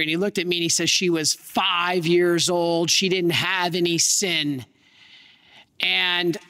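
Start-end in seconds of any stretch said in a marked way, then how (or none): 0.9-4.7 slow, bitter insistence; angrier retort. Retold or imitated. Hurting uncle rebuts the priest's theology, slow and bitter. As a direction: lean on each word in grief. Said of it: "He just got more angry".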